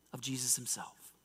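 soft, whispery sermon emphasis; hushed reverence. Real, not acted. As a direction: drop to a hush on the name. Reverent drop after climax.

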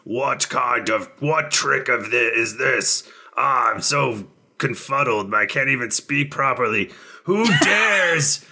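lightly voiced confused demon lord; a hint of a flustered monster; deep muffled sea monster. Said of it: "He goes".

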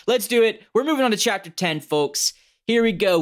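hyped-up high radio DJ intro; radio host voice. Pretend. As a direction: pump it up like a cheesy radio host. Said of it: "what would be the shitty radio thing to say".

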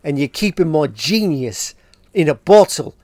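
put-on Australian-accented defiance. Freddie defying the band over going solo, mock Australian accent. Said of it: "That's my Australian accent".

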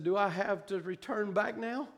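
soft, low retold question; subdued pleading; hushed plea. Retold plea not to return.

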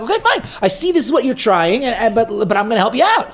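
a mock divine yes, gladly given; God answering. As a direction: concede warmly and promise help. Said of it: "So then God responds like that".

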